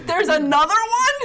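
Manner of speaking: loud, high drawn-out disbelief; mock shock. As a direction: stretch it into a scandalized outcry. Mock shock at another world war.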